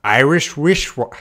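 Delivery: IRISH WRISTWATCH rushed together and breaking off; hurried tongue twister that trips up; fast attempt. Shown as a demonstration. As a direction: rush Irish wristwatch and stumble on the second word. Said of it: "when I try fast".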